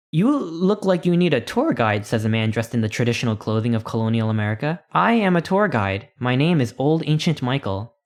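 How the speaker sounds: a hint of a proud, doddering guide; old tour guide. Colonial guide greeting a lost tourist, lightly voiced.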